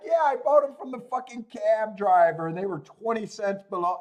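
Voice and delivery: lightly voiced proud doctor friend, mocked; mocking the gullible friend. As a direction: ham up his smug pride a little. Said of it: "He's like".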